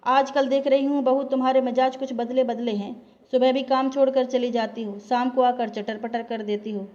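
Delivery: mother-in-law snaps at her daughter-in-law, mildly; angry scolding. Acted. सास का हल्का गुस्से भरा ताना. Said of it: "गुस्से से तमतमाकर बोली".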